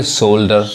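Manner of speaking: शोल्डर with "o" and sounded L, pitched low; correct pronunciation. Shown as a demonstration. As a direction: say शोल्डर with a long "o". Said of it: "क्या कहेंगे?". (शोल्डर, "ओ" और "ल" के साथ)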